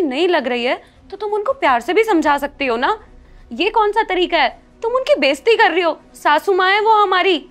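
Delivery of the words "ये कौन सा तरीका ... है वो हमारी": higher and louder, indignant scolding; stern rebuke. Acted. Elder daughter-in-law rebukes Champa for insulting their mother-in-law, indignant. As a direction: put Champa in her place.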